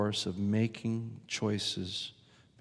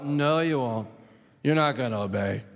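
lightly voiced, bitter Moses; cynical. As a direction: shut down their promise. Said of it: "this sort of cynicism".

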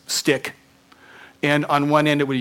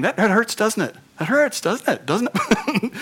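loving; 9 semitones higher than usual. Pretend. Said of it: "It's like lovingly way saying".

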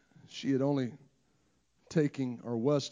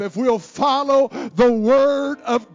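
soaring, shouted, slowed preaching climax; full-force preaching; 12 semitones higher, 15 dB louder, slower than usual. Acted. Preacher exhorting the congregation to trust the Word, shouting and half singing. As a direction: drive it home to the congregation at full voice.

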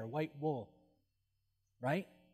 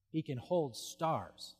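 awed hush; 6 dB quieter, much slower than usual. Shown as a demonstration. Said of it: "repeated for emphasis".

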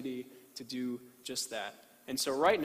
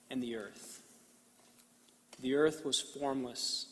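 scripture reading. Acted. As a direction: read it with reverent pauses. Reads Genesis slowly to congregation.

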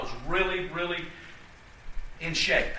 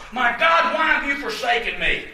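louder, crying out the words; anguished cry; 3 semitones higher, 5 dB louder than usual. Acted. Jesus on the cross crying out to God, loud and anguished.

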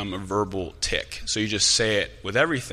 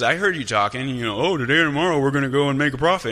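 mock-indignant fiery preacher, higher pitched; angry retelling; 5 semitones higher, 5 dB louder, faster than usual. Fiery James mocking boastful planners, mildly angry. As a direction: imitate a fiery letter writer mocking boastful talk. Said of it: "he gets angry with people and he calls people out".

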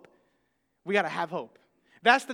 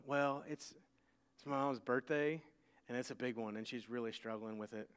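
put-on soft little girl voice; 12 semitones lower, 15 dB quieter than usual.

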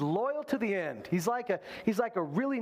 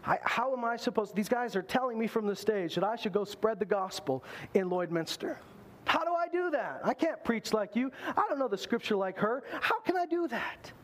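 anxious doubting believer; 5 semitones higher than usual. Pretend. Voicing insecure churchgoer doubting himself.

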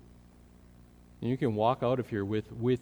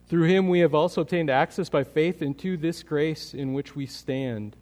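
loud; 4 semitones higher, 6 dB louder than usual. Acted. Reading Romans with force.

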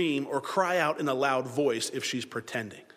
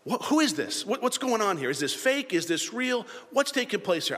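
higher-pitched rapid-fire puzzlement; puzzled questioning; 6 semitones higher than usual. Acted. Listeners wondering what is going on, high puzzled questions. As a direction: act out bewildered questions one after another.

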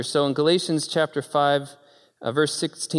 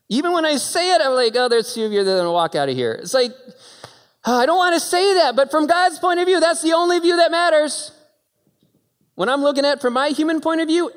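preaching at full force; 13 semitones higher, 5 dB louder, faster than usual. Real, not acted. Preacher to congregation about pain, full-force preaching. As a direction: pound it home to the crowd.

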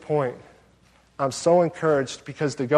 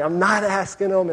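higher-pitched stubborn protest; mock refusal; 4 semitones higher than usual. Passenger arguing back at God, comically defiant. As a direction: dig in like a balky child.

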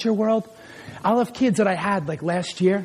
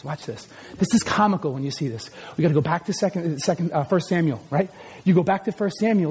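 normal talking voice

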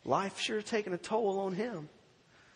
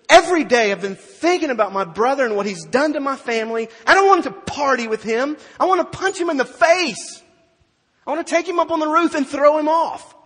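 much louder and higher, furious; seething anger; 8 semitones higher, 14 dB louder than usual. Acted. Angry older son venting at his brother, furious and loud. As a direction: boil over at the brother. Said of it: "He seethed".

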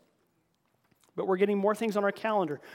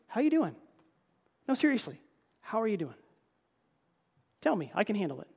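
sincere greeting. Retold or imitated. Pastor showing how to greet a struggling guest, sincere and caring. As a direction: lean in and mean the question. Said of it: "if you ask that question, mean it".

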